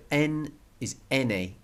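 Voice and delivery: English "N", then Spanish "N" as EH-neh; second "N" said EH-neh; Spanish letter name. Shown as a demonstration. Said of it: "is N in Spanish".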